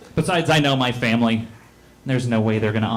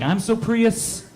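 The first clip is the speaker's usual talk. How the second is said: slow, higher smug boast; coworker boasting; 9 semitones higher, slower than usual. Retold or imitated. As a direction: stretch it out, pitched up and smug. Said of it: "He's like".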